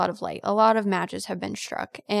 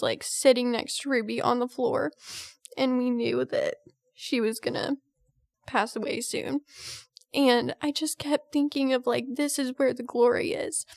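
telling a painful memory while crying; tearful; 3 semitones higher than usual. Real, not acted. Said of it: "now we're both crying".

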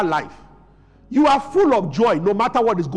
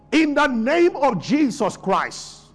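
slow, firm proclamation; bold decree; 3 semitones higher, slower than usual. Shown as a demonstration. Believer to a doubter, slow firm decree. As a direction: declare it slowly and certainly. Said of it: "tell the person".

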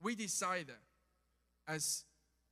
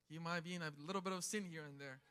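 low, hushed, quick aside; soft and low, as a suspicious onlooker; mock judgmental murmur; 5 semitones lower, 10 dB quieter, faster than usual. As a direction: imitate a gossip passing judgment under the breath. Voicing imagined judging onlookers.

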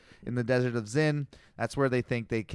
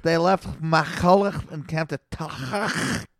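put-on Jewish accent; 3 semitones higher, slower than usual.

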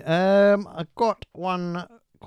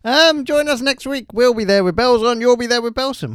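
big sign-off; 9 semitones higher, 8 dB louder than usual. Acted. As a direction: boom out the show's farewell like a DJ. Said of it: "that just came out naturally".

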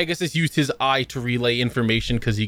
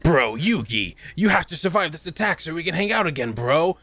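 high, fast dude-bro voice; frat bro; 6 semitones higher than usual. Retold or imitated. Bromance frat bro quote.

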